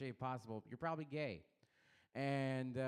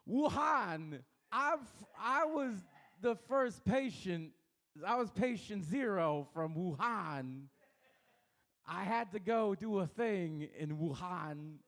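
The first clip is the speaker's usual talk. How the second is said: Walken-Asian impression fusion; 3 semitones higher, slower than usual. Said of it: "impression fusion".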